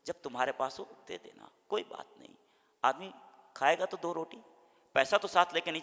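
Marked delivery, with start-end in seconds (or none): 0.1-2.3 loving reply. Shown as a demonstration. A lender gently telling a debtor to pay whenever he can. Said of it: "प्रेम से बोलो".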